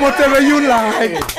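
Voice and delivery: high, slow stab at an American accent; earnest, not-quite American accent; attempted American accent. Shown as a demonstration. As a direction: try hard to sound American, drawn out and high. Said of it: "She tried to say it American".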